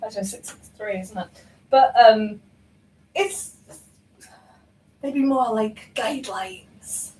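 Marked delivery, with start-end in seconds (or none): 3.1-7.1 slow, accidental hint of Scottish; weirdly Scottish. Real, not acted. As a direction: drift slowly into a Scottish lilt. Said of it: "That actually went weirdly Scottish".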